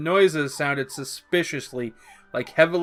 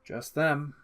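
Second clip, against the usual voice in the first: high, chatty fangirl voice; high gushing Harley; eager Harley; 7 semitones higher than usual. A narrator's reading. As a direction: gush like a fan.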